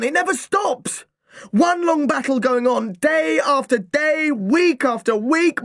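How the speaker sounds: put-on boy venting years of family war; bellowing. A narrator's reading. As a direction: bellow it across the garden. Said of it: "then I was truly bellowing now".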